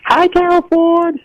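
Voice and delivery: very high, drawn-out put-on greeting; fake voice. Mystery caller greeting Carol on air, fake voice. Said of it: "Why are you doing a fake voice?".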